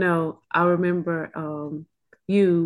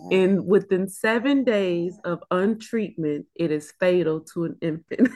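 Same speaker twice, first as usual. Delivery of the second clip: measured restatement so it sinks in; slower, deliberate; 3 semitones lower than usual. Real, not acted. Mother restating the diagnosis for the church, slow and deliberate. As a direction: say it slowly and carefully. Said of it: "let me say it slow".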